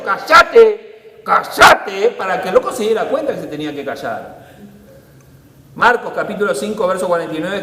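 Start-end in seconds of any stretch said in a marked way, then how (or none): 0.0-2.1 loud repeated order; firm shut-up. Retold or imitated. Advising what to say to the loud man, firm and loud. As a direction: tell him firmly to shut up. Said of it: "Le tendría que haber dicho".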